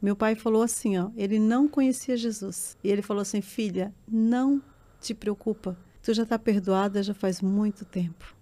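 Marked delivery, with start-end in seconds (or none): 3.4-8.3 slow, tender father's reassurance; gentle reassurance. Retold or imitated. Daughter repeating her father's forgiving words to the pastor, slow and gentle. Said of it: "Eu quero que as pessoas entendam essa parte".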